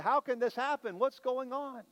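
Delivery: lightly voiced baffled Nicodemus; bewildered Nicodemus. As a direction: throw up your hands in mock confusion. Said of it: "throws up his hands and says".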